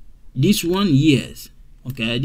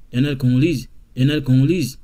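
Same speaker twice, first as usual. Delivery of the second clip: they're run together quickly; quick contraction; much faster than usual. Shown as a demonstration. Teacher showing the quick contracted form to students. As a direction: clip they are not into they're. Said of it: "I wanna say this fast".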